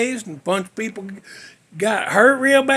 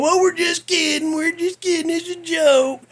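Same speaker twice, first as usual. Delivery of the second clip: higher-pitched mock reassurance; lightly mocking, sing-out protest; retold jokey backpedal; 6 semitones higher than usual. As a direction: imitate pranksters brushing it off, voice raised. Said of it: "they was all laughing at the end".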